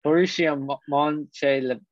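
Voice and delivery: halting attempt at "Mönchengladbach", broken after "Mo-"; botched German pronunciation. Real, not acted. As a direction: stumble over "Mönchengladbach" as someone with no German. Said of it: "I don't take German".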